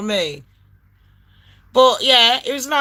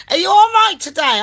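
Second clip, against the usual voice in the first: chirpy agent voice; 7 semitones higher, 3 dB louder than usual. Retold or imitated. Agent's question mimicked.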